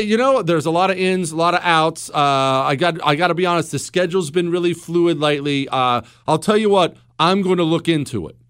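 mock hedging with filler pauses; evasive politician-speak. Husband dodging wife's question about cinnamon rolls, mock evasive. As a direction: dodge the question like a noncommittal politician, lightly played. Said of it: "I can't speak in that way".

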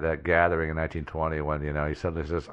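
ordinary delivery

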